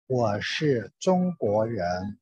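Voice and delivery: ordinary delivery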